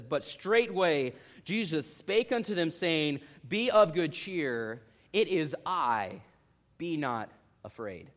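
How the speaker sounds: slow, calm reassurance; calm scripture reading. Acted. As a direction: read it slowly, soothing the frightened. Reads Jesus' words slowly.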